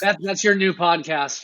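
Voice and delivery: slow, laughing joke; laughing at the idea of a Scrubs podcast. Real, not acted. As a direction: tease him while laughing. Joking through laughter.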